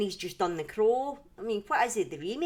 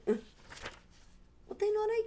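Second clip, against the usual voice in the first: laughing it off, high and slow; 13 semitones higher, much slower than usual. Real, not acted. Streamer tells viewers about the move, laughing. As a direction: chuckle through it, drawn out.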